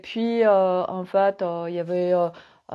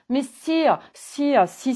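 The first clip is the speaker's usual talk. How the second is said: higher-pitched, mildly insistent retort; playful insistence; 6 semitones higher, slower than usual. Acted. Sophie answers those who object to Barbies, playful insistence. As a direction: insist back in a raised pitch.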